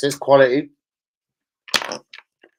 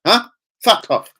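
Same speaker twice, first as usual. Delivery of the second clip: hammed-up higher, louder fan telling him off; mock angry fan; 6 semitones higher, 4 dB louder than usual. Fan snapping at him in the stadium, mock angry. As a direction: bark it back like an irritated fan. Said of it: "He was like".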